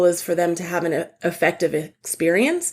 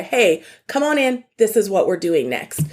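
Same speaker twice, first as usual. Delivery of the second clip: clear directive. Shown as a demonstration. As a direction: take back control of the room calmly. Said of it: "It's not a question".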